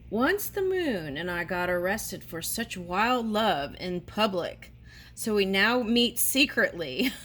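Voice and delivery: reading through giggles; trying not to laugh while reading; laughing while talking. Real, not acted. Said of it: "I'm sorry, I'm laughing".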